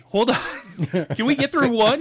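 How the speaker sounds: high, loud, laughing protest; laughing exasperated. Real, not acted. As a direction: laugh it out, overwhelmed. Laughing exasperation at second year.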